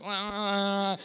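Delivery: mock slobbery "wah"; sloppy makeout noise. Comic imitating making out outside a bar, sloppy. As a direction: imitate a messy, open-mouthed kiss.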